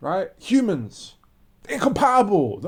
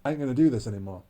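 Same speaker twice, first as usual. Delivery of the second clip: fed-up decision; 7 semitones lower, 3 dB quieter, much faster than usual. Retold or imitated. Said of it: "he said".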